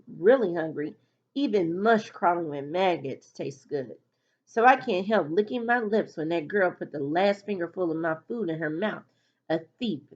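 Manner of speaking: lively first-person storytelling with acted dialogue; story narration. A narrator's reading. Reader tells Malika's school story to listeners, animated narration. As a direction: read it animatedly as the schoolgirl telling it.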